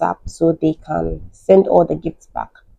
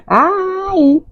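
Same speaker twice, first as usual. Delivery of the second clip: laughing aye; 13 semitones higher than usual. Real, not acted. Laughing reply to question.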